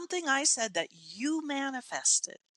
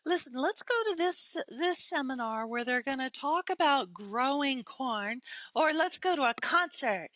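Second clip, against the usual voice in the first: higher-pitched eager suggestion, lightly acted; somebody suggesting; 3 semitones higher than usual. Somebody proposing a seminar or a concert, lightly acted suggestion. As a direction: lightly play someone pitching an outing. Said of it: "think of somebody's like".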